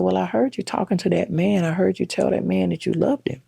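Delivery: put-on confronting teenage self. Daughter confronts mom about call.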